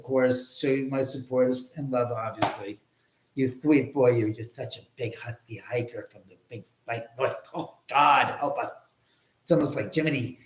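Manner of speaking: lightly lisping, pompous comic character voice; a hint of a lisping mock celebrity host; Jiminy Glick. Host sweet-talks his streamer friend in a light Jiminy Glick impression. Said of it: "He talks this accent".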